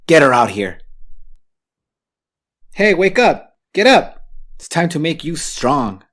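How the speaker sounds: loud, high barked wake-up; drill sergeant shout. Acted. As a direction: roar her awake like a drill sergeant.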